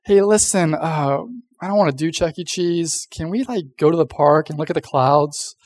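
hesitant letdown, stalling on the uh; reluctant rejection. Retold or imitated. Parents rejecting the kid's excited pick, reluctant. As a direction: ease into a no, then offer a lame substitute. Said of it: "they would just reject it".

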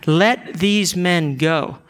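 slow, deliberate plea; understated plea on their behalf; measured plea. Acted. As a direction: plead gravely, word by word. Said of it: "he's pleading on their behalf".

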